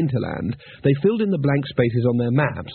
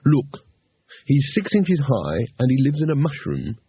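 mild snarl. Acted. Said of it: "snarled Rincewind".

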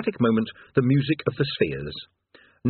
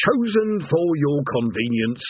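rumbled; 4 semitones higher than usual. Acted. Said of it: "Urglflogger rumbled".

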